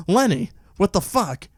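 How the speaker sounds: high, slow mock scolding of a pet; put-on high cat-lady voice; crazy cat lady. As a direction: drag out a cat lady's crazy telling-off. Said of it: "she sounds really crazy when she talks to Liddy".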